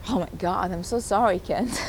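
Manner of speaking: apologising through tears; tearful apology. Real, not acted. Apologising to Kent the interviewer, choked up. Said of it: "I'm getting emotional".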